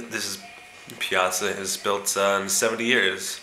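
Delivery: a hint of an irritated guide; annoyed tour guide. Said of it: "the tour guide says".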